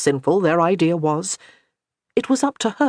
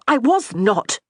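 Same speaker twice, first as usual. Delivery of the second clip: snapped; 6 semitones higher, slower than usual. A narrator's reading. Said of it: "she snapped".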